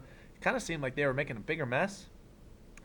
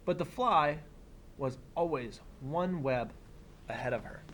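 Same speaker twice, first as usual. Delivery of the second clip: put-on reading to children. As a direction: read it like story time for a class. Reads picture book aloud.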